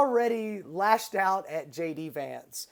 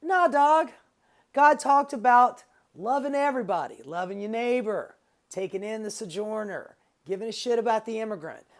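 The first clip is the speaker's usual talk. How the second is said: mock pope voice; 4 semitones higher, 5 dB louder than usual. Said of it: "Pope Leo's like".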